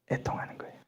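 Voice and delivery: grave, near-silent whisper; hushed grief. Acted. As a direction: drop to a mournful whisper. Solemn answer after loud questions. (애통하듯 낮게 속삭임)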